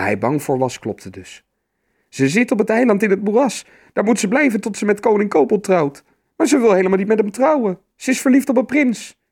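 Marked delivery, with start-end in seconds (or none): 2.1-9.2 put-on high, loud child's voice; squeaky, agitated young troll; alarmed troll child. A narrator's reading. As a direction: pour it out urgently as a little troll. Frightened troll child reports kidnapping.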